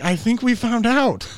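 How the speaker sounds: dry jab; sarcastic. Retold or imitated. Mocking the friend's experiment, slow sarcastic. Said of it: "And I was like".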